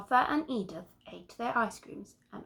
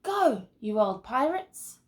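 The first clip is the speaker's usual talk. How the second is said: shouty pirate; 3 semitones higher, 5 dB louder than usual. Acted. Arthur playing pirates, shouting.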